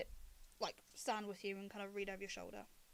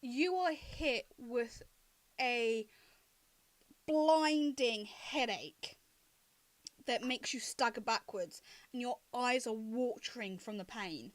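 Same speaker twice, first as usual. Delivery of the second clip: slow, drawn-out dramatic scene setting; game master narration; 5 dB louder, slower than usual. Acted. Game master tells a player of a blinding headache, slow dramatic narration. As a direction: stretch out the key words for suspense.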